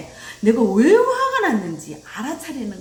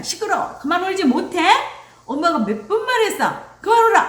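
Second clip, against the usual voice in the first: high mock telling-off building to a loud yell; angry scolding; 8 semitones higher, 4 dB louder than usual. Parent to crying child, angry scolding. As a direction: imitate a parent losing patience.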